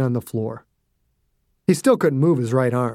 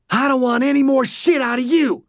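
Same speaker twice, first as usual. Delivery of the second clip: higher, raging voice; angry threat; 10 semitones higher than usual. Acted. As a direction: spit the threat down at him. Dew raging at Dossie.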